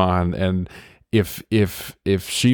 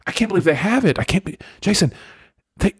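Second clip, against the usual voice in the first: wife's voice; 6 semitones higher than usual. Retold or imitated. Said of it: "And she's like".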